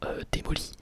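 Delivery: normal talking voice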